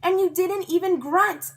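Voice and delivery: high, loud cheer; excited kid hollering; thrilled holler. A narrator's reading. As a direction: holler it with joy. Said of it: "I hollered, very thrilled".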